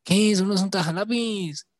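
high, mocking Cúcuta-accent impression. Newcomer to Bogotá correcting a word, mock Cúcuta accent. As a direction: imitate an indignant Cúcuta newcomer. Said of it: "eso que hizo Topo es cucuteño".

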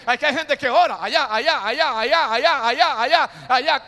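preaching at full force; building shout. Acted. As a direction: pump up the church with each allá.

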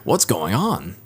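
imitating a puzzled dub character; anime dub voice. Demonstrating dubbed dialogue to a friend, anime dub voice. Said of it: "voice dubs sound like".

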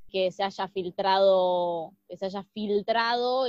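slow, sarcastic stress on filtrado; ironic air quotes. Real, not acted. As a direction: say filtrado as if in quotation marks. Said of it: "y lo digo entre comillas".

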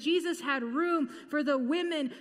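building, emphatic preaching. Acted. Preacher rising to the climax before the congregation, emphatic.

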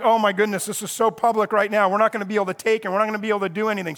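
rushed, fretful chatter of the priests; panicked priests. Retold or imitated. Religious leaders panicking in private over the crowds, rushed and fretful. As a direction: blurt it out fast like worried plotters. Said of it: "And they're like".

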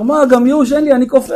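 high, hammed-up exasperation; desperate rooftop jumper. Jumper answering the man who came to save him, high mock despair. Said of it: "אותו אחד שרצה לקפוץ אומר".

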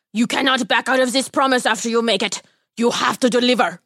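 a lightly voiced odd little man; a hint of a sly little stranger; strange tiny man. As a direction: greet them as a mysterious little man. Tiny man's voice.

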